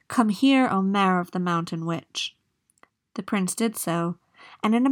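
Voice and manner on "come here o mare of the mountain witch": calling out. Acted. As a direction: call the mare across the water. Calling the mare.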